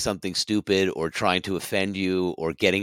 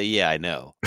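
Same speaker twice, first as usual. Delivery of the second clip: smug reply; 3 semitones lower, slower than usual. Retold or imitated. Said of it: "You just say".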